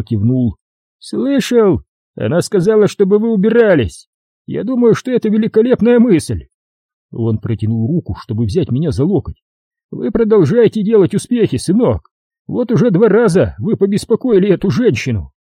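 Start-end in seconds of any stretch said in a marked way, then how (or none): 1.0-6.5 high, sarcastic policeman; mock him while sending him off; mocking cop Jerry. A narrator's reading. 9.9-15.3 high, sarcastic policeman; mock him while sending him off; mocking cop Jerry. A narrator's reading.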